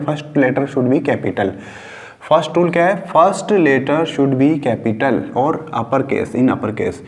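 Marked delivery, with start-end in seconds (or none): 0.1-1.5 slow dictation. Shown as a demonstration. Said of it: "मैं सिर्फ rule बोल रहा हूँ".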